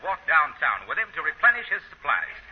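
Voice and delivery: steady radio announcer introduction; announcer scene setting. Acted. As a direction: set the scene for the listeners.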